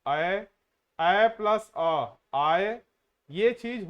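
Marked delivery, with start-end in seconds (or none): 0.1-0.5 ए plus अ at half speed, each sound separate; slowly. Shown as a demonstration. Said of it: "आय के लिए धीरे धीरे बोलिए". 1.0-2.8 ए plus अ at half speed, each sound separate; slowly. Shown as a demonstration. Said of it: "आय के लिए धीरे धीरे बोलिए".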